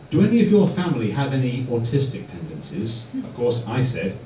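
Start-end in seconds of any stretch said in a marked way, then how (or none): 0.1-3.1 psychiatrist's Irish accent, imitated. Psychiatrist asks her patient about his family, imitated Irish accent. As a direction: imitate an Irish woman asking a question. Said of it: "a really heavy Irish accent".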